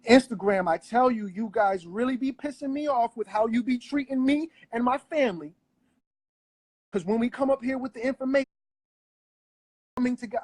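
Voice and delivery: angry rant. Real, not acted. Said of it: "I am upset".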